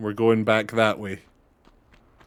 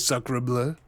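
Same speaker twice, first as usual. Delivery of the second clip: mock French exclamation; 5 dB quieter than usual. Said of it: "a French guy who only says".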